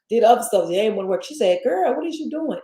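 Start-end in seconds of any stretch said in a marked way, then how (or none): 1.6-2.6 higher, lightly Trinidadian mother-in-law voice. Retold or imitated. Mother-in-law scolding her over the ginger, in a Trinidadian lilt. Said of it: "In her, her, uh, Trinidadian tone".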